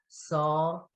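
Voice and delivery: SAW with the "aw" held long; long aw sound. Shown as a demonstration. Teacher demonstrating the A fada, drawn-out vowel. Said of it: "So that aw sound".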